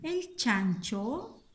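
slow chunks with very long pauses; dictating while writing. Shown as a demonstration. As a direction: stretch each phrase end, held and rising. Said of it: "vamos a escribir una oración".

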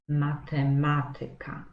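matematyka stressed on MA before te; stress on third from end. Shown as a demonstration. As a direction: matematyka with the syllable MA, second from the start, hit. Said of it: "ma być trzecia sylaba od końca".

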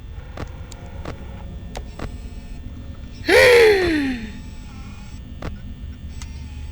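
long, high breathless gasp of fright; fearful gasp. Real, not acted. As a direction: suck in air in terror. Long fearful gasp during jumpscare. (korkuyla uzun nefes)

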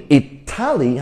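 "Italy" stressed wrongly as i-ta-LEE; stress on last syllable. Shown as a demonstration. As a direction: push the final LY of "Italy". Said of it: "你们觉得重音在哪里".

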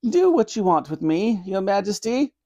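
high-pitched, earnest granny voice; pleading granny. Acted. Granny begging mercy for her grandson, pleading. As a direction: beg as an old grandmother.

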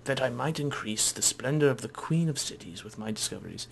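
weird, lofty scholar voice, lightly put on; pompous traveller telling a tale; Sathos. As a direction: hold forth grandly as a self-important explorer. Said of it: "I don't know why I gave him that voice".

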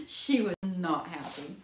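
slow, laughing through the words; real laughter while telling. Real, not acted. Groomer laughing while telling about her mom.

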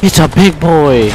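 loud, slow alarmed call; excited shout. Real, not acted. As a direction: yell the warning out. Confirms big enemy, shouting.

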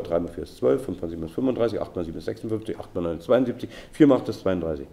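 brisk rattled-off list of sums; very fast reading. Shown as a demonstration. Teacher reads a note of hard sums aloud, very fast reading. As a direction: read the sums straight through at speed. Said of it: "sondern ganz schnell lesen".

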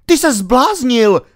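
high, loud, outraged shout; frantic high-pitched yell; roaring in panic. A narrator's reading. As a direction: yell at the driver in alarm. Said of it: "řval King".

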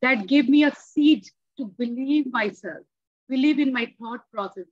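normal talking voice

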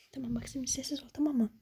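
soft urgent whisper; hushed whisper. Acted. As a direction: keep her quiet. Hushing the girl.

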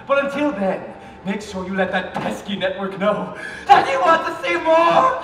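hammed-up game host. Haunted game show host gloating over contestants. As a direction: ham it up like a wicked TV host.

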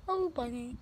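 cheeks stuffed with grapes; mumbling through a mouthful; mouth full. Real, not acted.

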